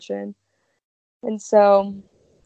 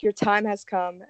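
creepy butler. Acted. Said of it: "open the doors and be like".

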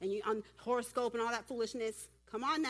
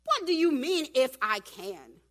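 acted affronted outburst; indignant Jesus; 2 semitones higher, 9 dB louder, slower than usual. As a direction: throw the doubt back forcefully, stretching the end. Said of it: "It's Jesus".

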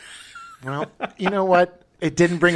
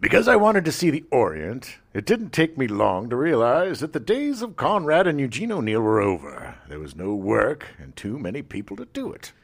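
put-on Australian accent; 3 semitones lower than usual. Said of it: "my Australian accent is highly sus".

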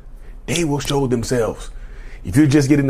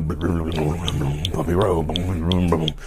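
drawn-out bumpy road; 6 semitones lower, much slower than usual. Acted. Drawn out slowly.

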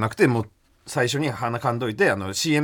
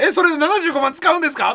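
high, louder snide questioner; 12 semitones higher, 4 dB louder than usual. Retold or imitated. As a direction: needle him like a mean TV staffer. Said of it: "って言われるよ".

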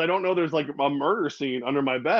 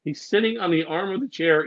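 ordinary talk

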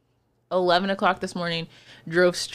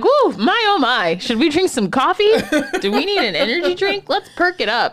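mock hyped; 8 semitones higher, 4 dB louder than usual. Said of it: "I'm like".

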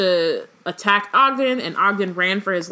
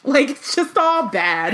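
laughing; 6 semitones higher, slower than usual. Real, not acted. Laughing at the trashy characters.

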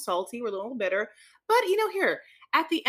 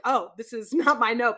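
laughing mock reading; 5 dB louder than usual. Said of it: "you were like".

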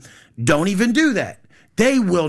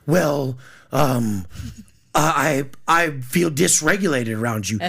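hesitant complaint; 5 semitones lower than usual. Acted. Mimics a partner's hesitant complaint.

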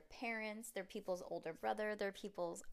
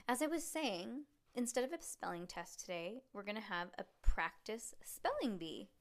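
expressive read-aloud with lively dialogue; story narration. Acted. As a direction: read a chapter book to a child. Resumes reading the story.

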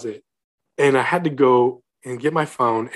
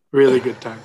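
dry ironic echo of his own joke; sarcastic repeat. Real, not acted. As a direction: mutter it again, more dry.

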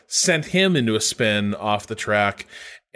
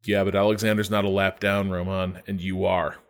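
low, soft, matter-of-fact reply; level radio voice, quietly blunt; deadpan race engineer; 5 semitones lower, 4 dB quieter than usual. Retold or imitated. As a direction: calmly set an upset driver straight.

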